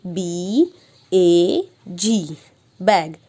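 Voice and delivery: slow, repeated ब ब ब ब then letter names; teacher drilling letter sounds; phonics sounding out. Shown as a demonstration. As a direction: stretch each sound for a child. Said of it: "अब हम इसे बोलेंगे".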